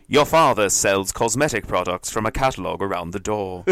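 put-on English accent. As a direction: translate it into proper English, in an English accent. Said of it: "English accent".

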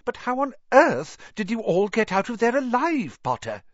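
a hint of a strict old teacher, rising in disbelief; lightly voiced Scottish-style professor, pressing him; stern McGonagall. A narrator's reading.

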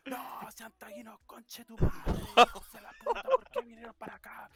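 high, strained outraged screaming; hammed-up southern-accented yelling; furious shouting. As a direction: imitate an owner screaming in singsong southern outrage. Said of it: "Y igual empieza a gritar".

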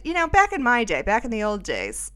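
mock old-timer. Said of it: "I was making a joke".

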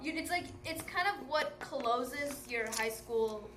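slow and wise, like a teacher; patient english teacher. Real, not acted. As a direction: hand down life wisdom slowly. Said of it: "I sound like an English teacher".

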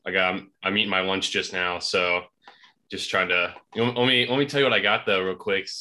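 talking with food in mouth; chewing while talking. Real, not acted. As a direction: speak through a mouthful. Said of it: "sorry if you hear me eating".

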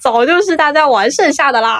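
laughing. Real, not acted. Co-host jokes fans played with this long ago, laughing. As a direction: laugh while finishing the joke.

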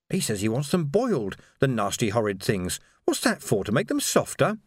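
a servant complaining about the doctor; gossiping housekeeper. Acted.

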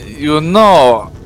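stately, measured in-character speech; formal noble character voice. Acted. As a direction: speak like a courtly noble.

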